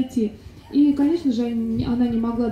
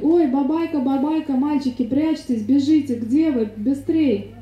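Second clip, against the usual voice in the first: slightly raised play-acted urgency; mock alarmed shouting; 3 semitones higher than usual. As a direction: call the boys in mild pretend panic. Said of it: "стала кричать".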